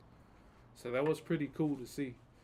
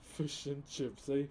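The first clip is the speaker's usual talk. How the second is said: gangster; slower than usual. Pretend. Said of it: "that actually sounds gangster".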